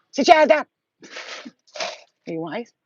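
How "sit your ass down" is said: barked firm command, louder; sit down, now; stern order. Real, not acted. Ordering her cat to sit down, firm loud command. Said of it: "scolding the cat".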